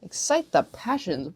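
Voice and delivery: slow, disbelieving repeat; incredulous. Real, not acted. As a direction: say it like you can't believe it.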